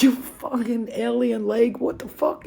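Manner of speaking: high, drawn-out mock cursing; exasperated outburst. Retold outburst after hurting her hand.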